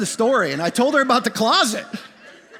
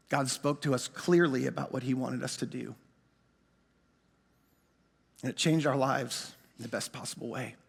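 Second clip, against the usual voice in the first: much softer and lower, sincere; solemn soft; 10 semitones lower, 9 dB quieter than usual. Real, not acted. To the congregation, closing the story: soft and sincere. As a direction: let the ending land softly.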